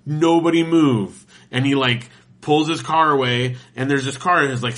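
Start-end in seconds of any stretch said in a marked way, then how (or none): 0.0-1.2 slow, drawn-out loudspeaker command; police loudspeaker. Retold or imitated. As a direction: call it out over a police car speaker. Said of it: "does the speaker".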